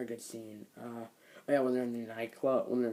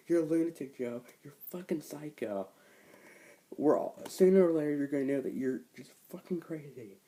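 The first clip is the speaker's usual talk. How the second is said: loud, higher-pitched retold yell; retold wife yelling; 4 semitones higher, 6 dB louder than usual. Wife yelling at husband Joe in a loud mock rage. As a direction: shout her down in mock fury. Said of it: "And then she's like".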